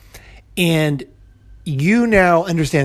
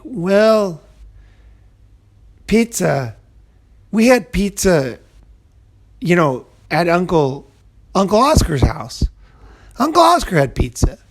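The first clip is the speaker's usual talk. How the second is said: lightly voiced child, rising higher as he remembers; kid recalling; 3 semitones higher than usual. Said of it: "and he's like".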